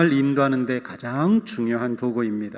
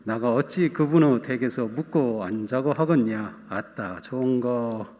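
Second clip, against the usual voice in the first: scripture read in a lightly put-on Jeolla dialect; 전라도 사투리로 구수하게 읽기. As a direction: read the psalm as a folksy Jeolla local. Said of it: "전라도 버전을 한번 읽어드리고".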